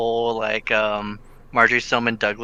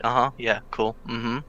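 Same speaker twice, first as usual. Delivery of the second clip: dismissive agreement; 8 dB quieter than usual. Retold or imitated. Fake nodding along to a conspiracy theorist.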